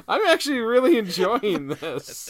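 talking through laughter; words bubbling with giggles; laughing. Real, not acted. Both laughing.

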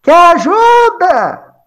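high, drawn-out call down a well; acted shout. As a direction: holler from far above, stretching the vowels. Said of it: "Jesus grita assim no poço".

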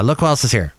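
ordinary talk

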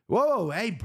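sharp high-pitched halt, retold; mock snapping. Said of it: "Like, snapped at me".

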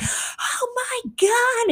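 stretched high "Oh my God" in disbelief; drawn-out squeal of shock at the bus; shocked gasp. Retold or imitated. Sees her photo on bus.

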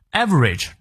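Average with a clear open first vowel; teacher showing the vowel in Average; average vowel demo. Shown as a demonstration. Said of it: "注意它的元音啊".

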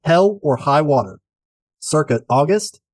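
showy rhythmic podcast host read; rhyming intro read. Acted. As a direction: perform the rhymes like a showman.

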